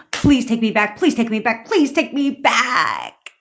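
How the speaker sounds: pleading, slowing down at the end; hammed-up whiny begging; mock begging. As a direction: drag the last plea out. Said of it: "begging on the fucking floor".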